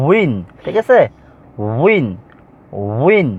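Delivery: উইন as one syllable "win", starting on a rounded w; careful waw pronunciation. Shown as a demonstration. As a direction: demonstrate the w glide in উইন. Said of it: "এটার উচ্চারণটা হবে কি?". (উইন-এর শুরুতে ওয়াও-এর স্পষ্ট উচ্চারণ)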